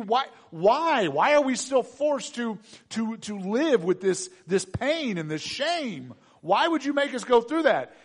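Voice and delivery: high, pained pleading with God; acted desperate complaint; anguished protest. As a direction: cry out at the unfairness. Couple's anguished prayer to God.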